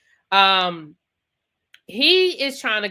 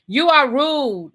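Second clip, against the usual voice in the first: "You are rude" slow and louder, leaning on "are"; slow stress on rude; 5 semitones higher, 5 dB louder, much slower than usual. Shown as a demonstration. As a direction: lay each word down slowly, stressing "are". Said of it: "'cause words mean things".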